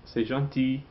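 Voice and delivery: "gentil" ending in a bare "ee" vowel; silent final L. Shown as a demonstration. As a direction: leave the L off the end of "gentil". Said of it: "Don't pronounce the L".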